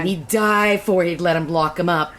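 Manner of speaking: lightly put-on hillbilly auntie accent; mild mock hillbilly-Scottish accent. Shown as a demonstration. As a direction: read as a brogue-tinged Southern auntie. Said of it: "it's the auntie voice".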